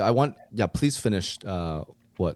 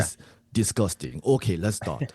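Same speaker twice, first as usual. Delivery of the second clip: lightly voiced Japanese coach; mock disgust in a put-on Japanese accent. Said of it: "you to be the Japanese coach".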